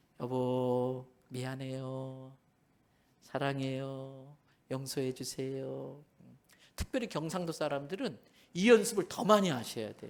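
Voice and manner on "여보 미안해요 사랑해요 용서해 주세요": soft, gentle, tender, very slow sweet-talk. Showing the congregation how to talk to a spouse at home, soft, gentle voice. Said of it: "목소리 좀 부드럽게 해가지고 나긋나긋하게".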